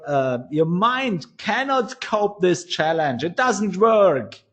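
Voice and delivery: high-pitched, frustrated retold lecture; a mentor scolding his student, mildly exasperated. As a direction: hammer home that it doesn't work, exasperated.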